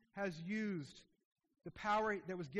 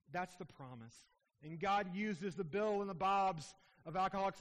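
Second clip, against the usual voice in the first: fervent, raised pulpit delivery; preaching. Acted. Pastor urging the church toward the powerless, fervent preaching. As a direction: press the call home like a pastor.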